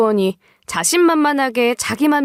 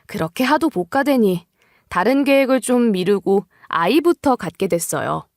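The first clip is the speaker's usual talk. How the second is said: ordinary delivery, nothing marked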